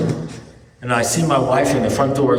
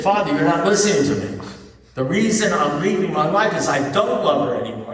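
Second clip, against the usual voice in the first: higher-pitched, frustrated protest; exasperated insistence; 6 semitones higher than usual. Retold or imitated. Husband pleading with his priest, exasperated. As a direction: insist as if nobody is listening.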